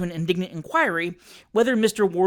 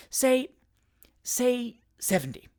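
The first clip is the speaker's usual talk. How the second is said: tempting whisper; 6 semitones higher, slower than usual. A narrator's reading. Attorney tempting Jingle, slow whispered offer. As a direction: breathe the offer slowly.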